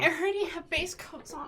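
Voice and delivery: laughing through the words; giggling while talking. Real, not acted. Laughing while admitting painting.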